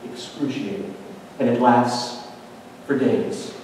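sudden drop to soft, low words; hushed gravity. Acted. Preacher lands the length of crucifixion suffering, hushed. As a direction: let it fall away quietly, with pauses.

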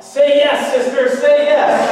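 put-on high, loud cry in a thick Spanish accent. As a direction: call out from the crowd in a Spanish accent. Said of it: "in this thick Spanish accent cry out".

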